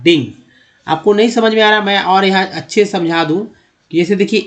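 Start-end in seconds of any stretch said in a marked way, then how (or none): 0.0-0.3 "डिंग" as ding. Shown as a demonstration. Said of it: "डिंग हो गया है". ("डिंग" को डिंग बोलें)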